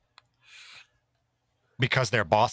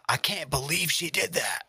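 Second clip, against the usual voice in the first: hushed, gossipy clickbait gasp; shocked whisper; 5 semitones higher, 3 dB quieter than usual. Pretend. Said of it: "be like".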